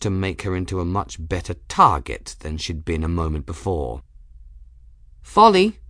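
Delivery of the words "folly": high, loud call into the dark. Acted. Bridget calls up to Folly in the dark, a loud steadied call. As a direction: call the name out, fighting to keep it steady. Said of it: "Bridget called, trying to keep her voice steady".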